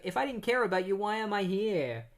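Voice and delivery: hurt dad. Retold or imitated. Dad answers son.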